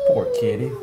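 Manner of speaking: high pet voice. Real, not acted. Pitying the cat.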